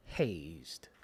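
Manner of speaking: hazed? whispered low and breathy, mocking. Asking the fellas, mock whisper. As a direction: breathe hazed? like a scandalous secret. Asks fellas, mocks the word.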